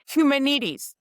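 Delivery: humanities said with a wrong stress, hu-MAN-ities; stumbling over humanities as she once did; mispronounced humanities. Shown as a demonstration. Telling a podcast host how she used to say humanities, said wrongly. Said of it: "I didn't know how to say humanities".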